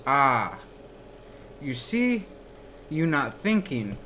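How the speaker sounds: put-on retelling his Korean professor's correction in a mild accent; imitating Korean accent. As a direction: mimic the teacher's Korean accent, light and affectionate. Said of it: "He's from, like, Korea or something".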